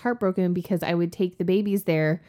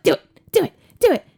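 louder, higher chanted urging; mock egging-on; 11 semitones higher, 9 dB louder, faster than usual. Coworkers pestering her to do the accent, mock egging-on. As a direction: imitate coworkers goading her on.

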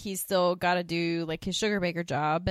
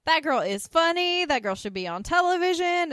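imitating Suzanne; 10 semitones higher, 6 dB louder than usual. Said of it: "she says".

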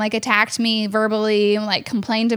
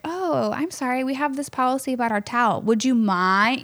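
politely apologetic; 2 semitones higher, 3 dB quieter than usual. Acted. Demonstrates easy polite staff script.

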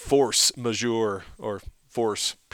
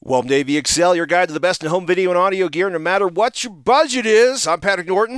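breathing heavily at high altitude; short of breath in the thin air; heavy breathing; 6 semitones higher, 7 dB louder than usual. Real, not acted. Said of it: "If I sound like I'm breathing heavily".

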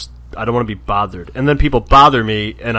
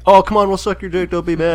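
pleading; 6 semitones higher than usual. Retold or imitated. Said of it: "they're like".

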